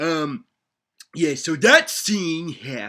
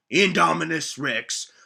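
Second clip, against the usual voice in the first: ordinary delivery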